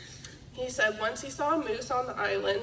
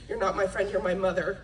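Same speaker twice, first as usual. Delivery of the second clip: sarcastic; 4 semitones lower, faster than usual. Retold or imitated. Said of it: "in a sarcastic tone".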